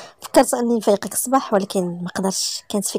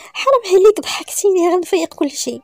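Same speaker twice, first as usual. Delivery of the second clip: high-pitched, giggly protest; stifled laughter; 8 semitones higher than usual. Acted. Woman in bed afraid of waking everyone, stifling her laughter. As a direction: plead while trying to hold back the giggles. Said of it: "بدات كتضحك وكتحرك فوق السرير، كتحاول تكتم ضحكاتها".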